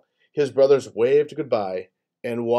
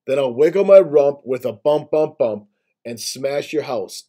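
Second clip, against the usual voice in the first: boar voice; 2 semitones higher, 4 dB louder than usual. Acted. Boar threatens the gators.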